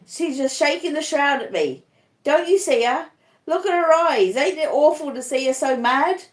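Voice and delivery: high, frantic raving; raving in terror. Acted. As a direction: rave in fevered terror. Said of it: "he cries out".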